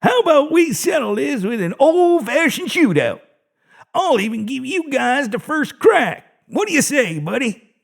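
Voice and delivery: playful menacing invitation; excited old guard; eager old guard. A narrator's reading. Carl voiced in story.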